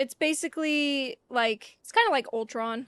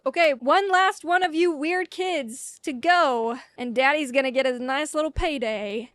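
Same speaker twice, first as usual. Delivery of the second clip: acted Deadpool. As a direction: play a smug hunter sizing up the last target. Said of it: "he's sitting there and he's like".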